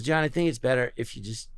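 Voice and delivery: low, soft retold director; understated, confiding murmur; quiet reassurance. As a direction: take an actor aside, softly and low.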